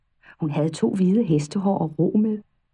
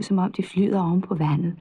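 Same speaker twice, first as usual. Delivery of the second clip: plain reading voice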